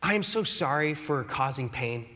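a plain, offhand blanket sorry; generic apology. Shown as a demonstration. To spouse, vague catch-all sorry, offhand. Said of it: "don't just generic it".

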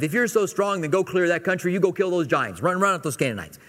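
mild mock dad challenge, easing down; exasperated dad. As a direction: goad them like a fed-up father. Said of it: "responds, first of all, as a dad".

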